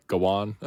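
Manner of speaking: "Gawan" as guh-WAHN; unsure pronunciation. Shown as a demonstration. Host guessing at the knight's name, "Gawan" as guh-WAHN. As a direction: try "Gawan" with an open "wahn" ending. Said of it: "I don't know".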